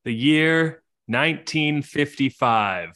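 game master opening the scene, measured and slightly slow; story narration. A narrator's reading. Game master introducing the Wallace family, storyteller cadence.

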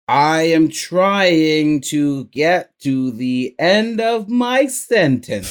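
dragging each word out, straining to reach the end; slow, effortful mock thinking; slow strained. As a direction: plod toward the end of the sentence. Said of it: "you're like".

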